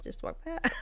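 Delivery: inner plea. Retold or imitated. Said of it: "I was thinking to myself".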